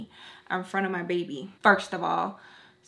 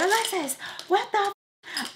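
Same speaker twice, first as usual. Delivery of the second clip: mock disbelief; 11 semitones higher than usual. Viewers reacting to her awkward story, mock disbelief. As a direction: imitate an appalled audience up high.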